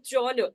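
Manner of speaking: "journal" said as the model for genre; "journal", teacher's careful model word; model pronunciation. Shown as a demonstration. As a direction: demonstrate "journal" clearly as two syllables. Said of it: "This is the pronunciation of the word".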